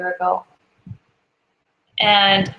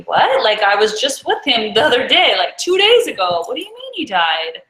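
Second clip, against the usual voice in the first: shocked disbelief; 2 semitones higher than usual. Retold or imitated. Traveler thinking over the driver's death message, disbelieving. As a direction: relive the disbelief, pitch jumping around. Her shocked reaction to the news.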